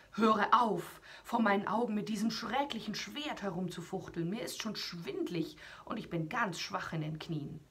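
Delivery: a beaten giant whining for mercy; giant begging to stop. Acted.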